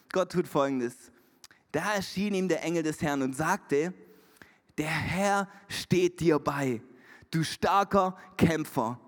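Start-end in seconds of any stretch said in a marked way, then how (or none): 4.8-9.0 slow, low, weighty scripture reading; measured, low proclamation; solemn angelic greeting. A narrator's reading. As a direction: pronounce it slowly, with pauses between phrases. Reads the angel's greeting aloud.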